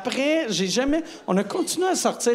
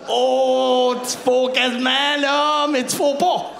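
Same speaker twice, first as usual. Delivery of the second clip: moaning; 6 semitones higher, 6 dB louder, much slower than usual. Acted. Comic moaning about almost sex.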